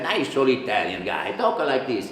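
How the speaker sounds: gentle Italian accent; nice old Italian. Shown as a demonstration. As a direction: talk like a kindly old Italian guy. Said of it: "an Italian voice that's a little bit nicer".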